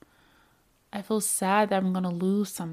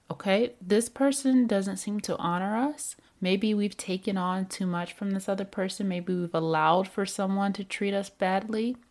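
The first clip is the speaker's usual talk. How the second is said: self-soothing talk. Pretend. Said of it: "Being able to say".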